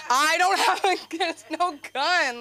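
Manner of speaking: high, loud, laughing denial; mock frantic protest. Comic reassuring the girl about her joke, mock frantic. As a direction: protest in a hammed-up panic, stretching the end.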